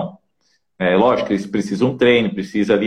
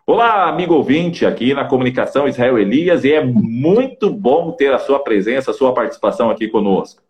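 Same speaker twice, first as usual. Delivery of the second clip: radio host greeting. Shown as a demonstration. A communication coach demos a radio host's welcome. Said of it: "fazendo a entonação de voz".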